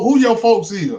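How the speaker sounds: high, eager question; excited young woman. Retold or imitated. Girl asking the comedian about his family, high eager question. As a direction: pitch it up with quick curiosity. Repeats her quoted question.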